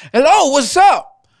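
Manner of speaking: mock radio talk show host. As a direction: ham it up like a morning FM jock. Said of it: "parang radio talk show sa F M".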